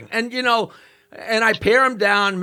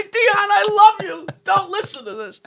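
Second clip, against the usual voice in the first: apology; 12 semitones higher than usual. Retold or imitated. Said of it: "I'm about to stop and say".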